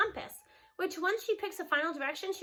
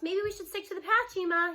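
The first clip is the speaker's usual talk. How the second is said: shouting; 5 semitones higher than usual. Acted. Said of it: "he shouts".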